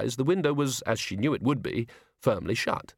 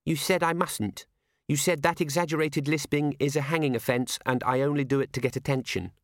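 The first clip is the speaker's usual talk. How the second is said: put-on little girl voice; 4 semitones higher than usual. Child reciting rule.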